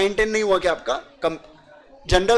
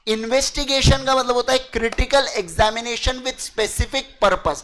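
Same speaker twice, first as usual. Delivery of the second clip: slow dictation; slower than usual. Shown as a demonstration. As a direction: read the definition slowly. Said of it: "definition dictated". (परिभाषा धीरे-धीरे बोलना)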